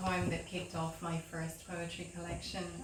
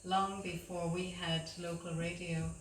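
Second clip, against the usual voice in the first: measured poem reading with pauses between lines; poetry reading. Acted. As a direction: read your poem to an audience, line by line. Reads own poem aloud.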